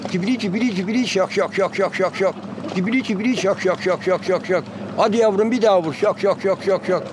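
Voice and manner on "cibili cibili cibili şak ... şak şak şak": rolling cibili then rapid şak clicks; mimicking a fine singing goldfinch; prized goldfinch song imitation. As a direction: trill it, then snap out the şak notes. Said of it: "Bunlar lezzetli kuşlar".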